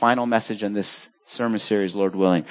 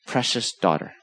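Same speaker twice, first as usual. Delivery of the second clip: put-on softly, like a parent kneeling to a child; tender; 5 semitones lower, 5 dB quieter than usual. Jesus reassuring the frightened woman, gentle and soft. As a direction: soothe her, no rebuke at all. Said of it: "Jesus, with a word, calms her".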